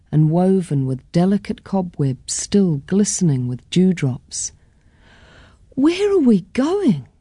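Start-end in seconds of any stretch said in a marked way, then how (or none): 5.7-7.1 put-on child Caitlin. A narrator's reading. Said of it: "I asked again".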